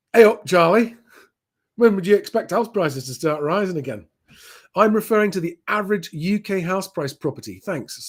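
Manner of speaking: bad northern English accent. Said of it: "Sorry for the terrible northern accent".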